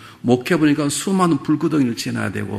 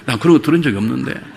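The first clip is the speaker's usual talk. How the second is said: repeated with a laugh and louder; elder's reply, laughing; 6 dB louder than usual. Retold or imitated. Elder repeating to the pastor that he heard nothing, with a laugh. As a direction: say it again, laughing louder at the punchline. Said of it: "그랬더니".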